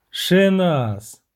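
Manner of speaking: mild call to get attention; shout. Acted. Witcher interrupts the siren, mildly shouting. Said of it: "закричав Геральт".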